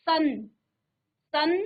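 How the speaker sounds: सन ending on a clear dental n; teacher isolating सन; half-n demonstration. Shown as a demonstration. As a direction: sound out सन, landing on the n. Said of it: "आधा नौ का उच्चारण कर रहा है".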